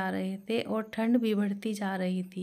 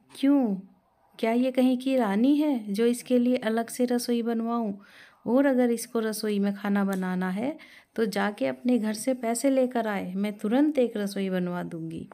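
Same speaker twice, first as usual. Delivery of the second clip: angry mother-in-law. Acted. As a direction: snap back at the son in anger. Mother-in-law scolds son over daughter-in-law. (गुस्से में डाँटती सास)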